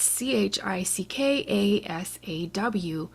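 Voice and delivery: slow letter-by-letter C H I C K A S A W; spelled out. Shown as a demonstration. Sponsor read, spelling the code word slowly. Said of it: "use the code word Chickasaw".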